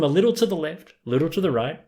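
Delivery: high, lilting imitation of muttered directions; sing-songy. Retelling Larry nudging two women aside, sing-songy. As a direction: lilt it up and down in mock politeness. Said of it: "like, very sing-songy".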